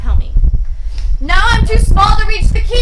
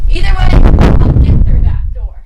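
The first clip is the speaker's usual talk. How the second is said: determined; 10 dB louder than usual. Acted. Determined declaration.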